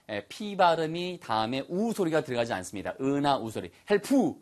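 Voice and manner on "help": "help" stretched into "hel-pu"; wrong added vowel. Shown as a demonstration. Teacher warns it becomes another word, "help" said as "hel-pu". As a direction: tack an oo onto the end of "help". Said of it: "이러면 들릴 것 같지만 다른 단어하고 또 인식을 해요".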